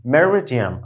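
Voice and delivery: মেরিডিয়াম with second vowel reduced to "me-ruh"; English-sounding "meh-ruh-di-um" for মেরিডিয়াম; corrected pronunciation. Shown as a demonstration. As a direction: say মেরিডিয়াম carefully, English-style. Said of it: "মেরিডিয়াম না".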